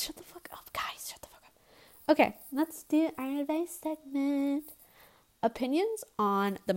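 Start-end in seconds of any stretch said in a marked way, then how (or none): 0.0-2.1 mock whispered telling-off. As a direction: hiss it jokingly at the audience. Telling listeners off jokingly.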